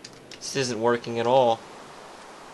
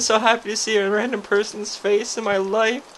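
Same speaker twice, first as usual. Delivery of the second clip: excited; 11 semitones higher, 8 dB louder than usual. Acted. Overjoyed to see the stranger.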